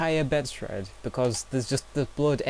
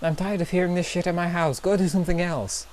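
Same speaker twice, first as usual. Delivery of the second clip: raised, higher-pitched imitation of a yelling stepdad; mock yelling; 5 semitones higher than usual. Vlogger reading out the stepdad through the wall, mock yelling. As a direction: imitate an angry yell without full volume. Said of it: "we hear her stepdad yelling".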